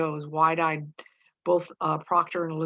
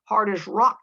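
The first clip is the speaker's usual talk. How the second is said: exasperated, higher and louder on the hard proof; great impatience; 4 semitones higher, 7 dB louder, slower than usual. A narrator's reading. Mary Warren tells Proctor of the proof, with great impatience. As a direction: press each point impatiently, stretching the opening. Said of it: "with great impatience at him".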